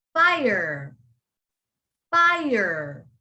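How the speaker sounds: fire. ending in a full American er. Shown as a demonstration. Teacher models fire. with the er ending for students. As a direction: stretch the final er in fire. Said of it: "it has the E R sound".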